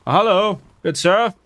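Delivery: lightly put-on British accent; mock British. Streamer greeting a game opponent in mock British. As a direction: play at being a polite British gentleman. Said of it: "me doing the British".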